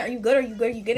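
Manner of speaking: quick-fire repeated question, imitated; insistent repeating. Boyfriend repeatedly asking if she is good, insistent repeating. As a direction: imitate someone checking over and over. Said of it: "he kept saying".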